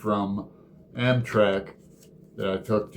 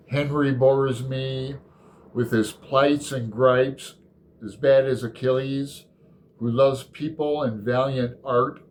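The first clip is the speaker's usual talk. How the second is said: poem reading. Acted. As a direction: let each line land, lingering on the images. Reads Dream Song fourteen aloud.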